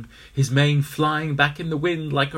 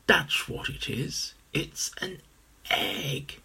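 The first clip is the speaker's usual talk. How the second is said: hushed whisper; 3 semitones higher, 3 dB quieter, slower than usual. Acted. Aloysius hushed realization.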